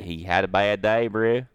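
loud Canadian redneck drawl; mock Canadian redneck goat owner. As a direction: ham up a Canadian redneck accent. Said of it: "in his Canadian redneck voice".

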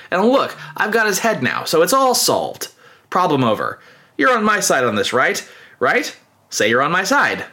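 coaxing, needy insistence; anxious self-justifying plea. Retold or imitated. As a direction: lightly act a rebel fishing for agreement. Cornered rebel pleading for agreement.

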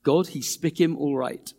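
Pacific pidgin. Shown as a demonstration. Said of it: "beautiful pidgin translation".

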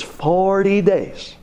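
forty days drawn out slowly; lightly voiced old man stressing forty days; slow emphasis. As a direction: land each word slowly.

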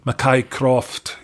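slow Scots accent on "Mackay Croft", rolled and drawn out. Shown as a demonstration. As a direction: say "Mackay Croft" like a Scot, slowly. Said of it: "I do a pretty good Scots accent".

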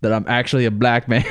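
confessional, lightly mocked Black American accent; hint of an imitated Black American accent; put-on Black American accent. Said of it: "you sound like you're a black man".

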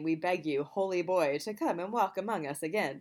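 light vampire accent, barely voiced; a hint of a stereotypical Italian vampire. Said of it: "I said that like I was a vampire".

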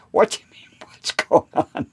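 whispered mock innocence; conspiratorial whisper. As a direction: hush it, playing dumb. Feigning innocence in retold dialogue.

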